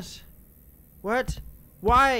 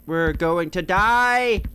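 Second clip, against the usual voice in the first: slow, swelling wail of doom; dramatic doom cry; 4 dB louder, slower than usual. Pretend. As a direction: stretch the last word into a wail.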